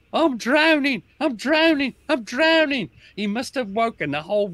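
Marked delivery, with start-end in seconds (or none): 0.1-2.9 a mock panicked cry, much higher and louder; retold panicked screaming. Cockney lad panicking in the river, imitated screaming. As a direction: imitate a soldier yelling that he is drowning. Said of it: "He was screaming".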